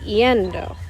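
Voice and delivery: "yendo" with the emphasis on the E; "yendo" stressed on E, light final syllable. Shown as a demonstration. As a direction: lean on the first syllable of "yendo". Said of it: "I still need the emphasis on that E".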